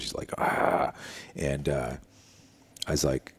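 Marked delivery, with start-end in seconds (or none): 0.4-0.9 voiceless, seething "ah"; imitated fuming exhale. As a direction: let off steam in a mock huff. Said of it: "steam coming out of his ears".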